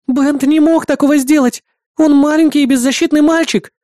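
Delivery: high, loud, worried protest; agitated. A narrator's reading. Worried partner protests over the headset. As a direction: plead for the boy in alarm. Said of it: "взволнованный голос".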